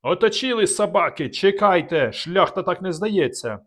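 high, loud enraged yell; furious roar. Acted. Trapped Dubatovk raging at the attackers, furious yell. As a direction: roar with inhuman fury. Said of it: "нелюдський від люті голос".

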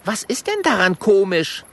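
put-on high, puzzled little dragon girl; Mathilda's voice.

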